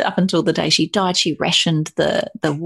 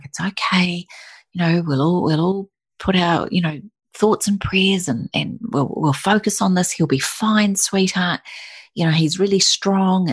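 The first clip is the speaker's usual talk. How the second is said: gentle pep talk; 3 semitones higher than usual. Retold or imitated. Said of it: "giving me this beautiful little pep talk".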